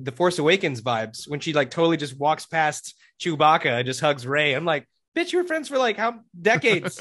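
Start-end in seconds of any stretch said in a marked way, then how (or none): 5.2-7.0 high incredulous jab, slowing on decades; mock outrage. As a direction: tease her like a betrayed friend. Mocking Rey-Chewbacca hug scene.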